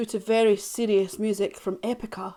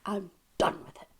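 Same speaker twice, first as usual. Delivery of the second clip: quiet, weary; 6 dB quieter than usual. Acted. Repeats, then louder.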